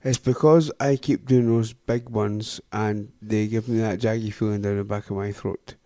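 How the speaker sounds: slow, careful mocking repeat; slow and deliberate. Shown as a demonstration. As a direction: spell it back slowly word by word. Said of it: "I'm gonna repeat what you said".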